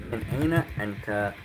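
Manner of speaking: quick, run together as one phrase; fluent. Shown as a demonstration. Teacher giving the whole question fast in one breath. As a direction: say it the way it flows in speech. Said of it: "Meaning, where are you from?".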